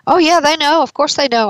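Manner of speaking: imitating a client's smug certainty; mock emphatic "of course"; insistent client. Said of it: "heard people in my office say to me".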